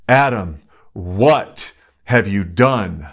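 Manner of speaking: Adam called out, then what have you done slowed right down; a hint of God's solemn disappointment; grave divine rebuke. Preacher voicing God confronting Adam, slow and grave.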